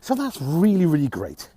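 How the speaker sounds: bitter sarcastic praise. Real, not acted. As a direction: say it as if you mean it, dripping sarcasm. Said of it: "I'm being fucking sarcastic".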